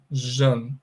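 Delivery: "Jan" as a drawn-out zhun; zh sound demo. Shown as a demonstration. Teacher showing the ending after a vowel, zh sound demo. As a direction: say "Jan" with a long buzzing zh and short vowel. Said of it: "eu vou pronunciar com esse final aí".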